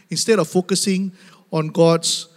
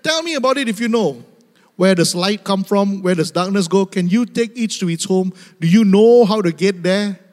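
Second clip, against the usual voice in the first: God questioning Job. Acted. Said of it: "God speaks like that".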